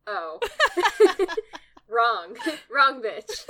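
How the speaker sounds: high, laughing realization; laughing disbelief. Retold or imitated. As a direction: laugh through the words in dismay. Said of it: "and was like".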